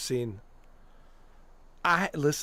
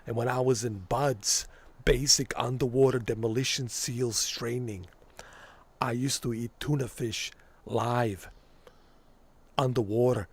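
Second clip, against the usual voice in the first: lightly voiced tough wrestler-governor boast; a hint of Jesse Ventura's swagger; Jesse Ventura impression. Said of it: "when I do these voices".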